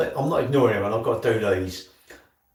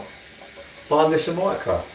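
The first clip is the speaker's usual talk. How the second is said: slow, drawn-out pitch; slow advert; 4 semitones higher, much slower than usual. Acted. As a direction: sell it slowly like an ad.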